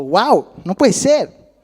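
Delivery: loud, drawn-out wow of disbelief; acted astonishment. Peter stepping out of the boat, acted astonishment. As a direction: marvel slowly, with big pitch swings. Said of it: "y dijo".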